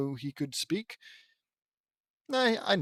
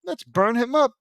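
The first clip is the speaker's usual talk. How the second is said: fiery battle cry; 9 semitones higher, 7 dB louder than usual. Acted.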